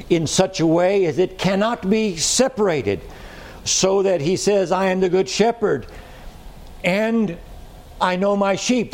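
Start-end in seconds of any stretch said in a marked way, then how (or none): 4.7-8.9 "and" held high and alone between pauses; stress on "and". Shown as a demonstration. Preacher showing two things cannot be separated, stress on "and". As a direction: lift the pitch and isolate "and". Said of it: "notice the emphasis on the word".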